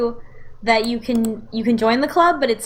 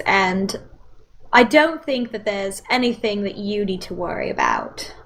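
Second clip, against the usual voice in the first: put-on British accent. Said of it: "British accent".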